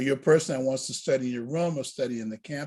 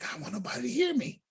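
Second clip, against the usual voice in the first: retold hushed voice; 6 semitones higher, 8 dB quieter, faster than usual. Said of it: "Why are we whispering?".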